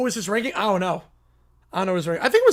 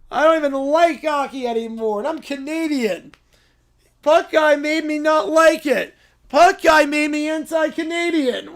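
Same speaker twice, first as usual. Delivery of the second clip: crying; 2 semitones higher than usual. Acted. Child blaming Puck Guy, tearful wail. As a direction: blubber the complaint like a kid. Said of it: "Why are you crying now?".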